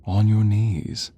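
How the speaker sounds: loud, slow command; domineering, forceful and deliberate; commanding order. Acted. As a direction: order the captive down, drawn out. Orders captive to kneel.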